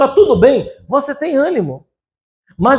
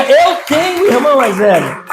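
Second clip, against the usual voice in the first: congregation repeat-after-me; 3 semitones higher than usual. Shown as a demonstration.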